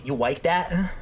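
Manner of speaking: "You like that?" asked with a rising questioning lilt; questioning tune. Shown as a demonstration. Teaching chat how to say the catchphrase, rising question. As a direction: ask "You like that?" as a teasing question. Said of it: "We say".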